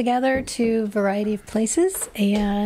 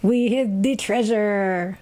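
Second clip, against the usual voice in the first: pirate voice; slower than usual. Pretend. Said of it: "It's Talk Like a Pirate Day".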